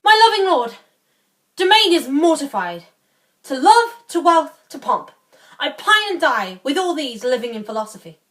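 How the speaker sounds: declaimed vow, high loud openings falling away; mildly theatrical self-denial; lightly voiced devoted lord. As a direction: renounce each pleasure in turn, with pauses. Playing Domain, renouncing worldly pleasures.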